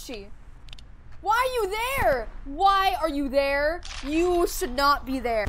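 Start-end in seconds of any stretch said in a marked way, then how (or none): 1.2-5.5 loud, emphatic disbelief; loud, indignant alarm; alarmed protest. Real, not acted. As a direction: demand it, alarmed and raised. Startled by game character's position.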